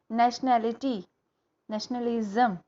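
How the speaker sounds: नेशनैलिटी and नेशनलिज्म said keeping the "shan" sound; shun sound kept. Shown as a demonstration. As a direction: keep the "शन" sound inside the longer word. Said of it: "वो शन की ही रहेगी". ("शन" की ध्वनि बनाए रखें)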